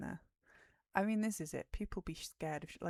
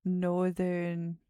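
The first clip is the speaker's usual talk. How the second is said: loud; 9 dB louder than usual. Real, not acted. Loud wrong guess.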